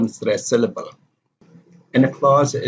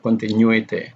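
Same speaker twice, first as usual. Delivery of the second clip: "continuity" as conti-NU-ity; stress before the ending. Shown as a demonstration. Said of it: "this is the same case with definition".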